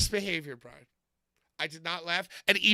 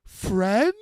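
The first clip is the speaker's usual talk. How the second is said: Frankenstein's monster; 5 dB louder than usual. Retold or imitated. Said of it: "And Frankenstein's monster goes".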